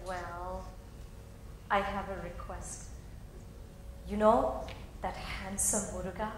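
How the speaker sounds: soft, hushed confession of love; shy confession. Acted. Heroine confides her love to her friend, soft and shy. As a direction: murmur it, a little bashful.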